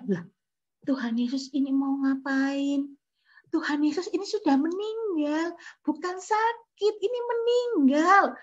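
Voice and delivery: incredulous, building to a high cry; doubting crowd. Acted. Crowd objects the boy is dead, rising to a high cry.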